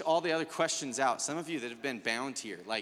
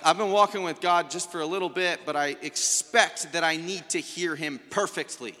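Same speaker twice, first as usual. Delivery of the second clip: eager new believer; 3 semitones higher, 5 dB louder than usual. Retold or imitated. Voicing a demanding new believer.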